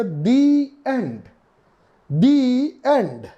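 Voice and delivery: "The end" with "the" said as dee; teacher demonstrating "the end"; the pronounced dee. Shown as a demonstration. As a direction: model "The end" with a long dee sound. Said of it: "तो हम बोलते हैं".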